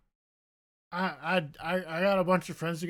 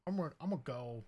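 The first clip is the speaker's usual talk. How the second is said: much softer, lower muttered exit; mock sulky exit; 5 semitones lower, 9 dB quieter than usual. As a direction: trail off as you leave.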